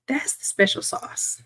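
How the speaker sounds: hushed, slow, letting you in on a secret; secret whisper. Real, not acted. Revealing the secret trick.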